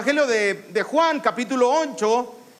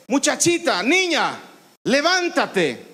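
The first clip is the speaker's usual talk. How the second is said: with authority. Shown as a demonstration. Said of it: "Con expresión, con autoridad".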